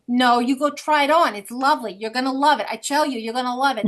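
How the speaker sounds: hint of a New York Jewish boutique lady pushing a dress; New York Jewish saleswoman. Retelling boutique owners urging her, light New York Jewish accent. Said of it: "that's exactly the way they talk".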